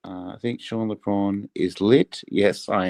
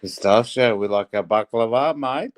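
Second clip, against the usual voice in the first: put-on Greek Aussie accent; 3 dB louder than usual. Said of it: "the Greek Aussie accent is brilliant".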